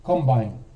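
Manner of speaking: COMbine, first syllable stressed like the farm machine; noun stress on combine. Shown as a demonstration. Teacher modelling "combine" for a student, stress first. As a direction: say "combine" as in combine harvester, stress on COM. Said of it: "Like in combine harvester".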